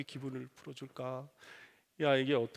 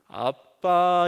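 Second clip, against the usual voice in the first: very slow, louder stretched call; wheedling call; 8 dB louder, much slower than usual. Retold or imitated. Son texting dad at the office, drawn-out call. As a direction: drag out dad to get attention. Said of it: "이런 겁니다".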